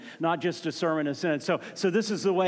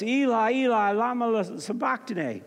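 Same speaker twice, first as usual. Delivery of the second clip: raised, higher-pitched quoted cry; retold loud cry; 4 semitones higher than usual. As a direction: cry out, moderately raised, as in retelling. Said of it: "cried out in a loud voice".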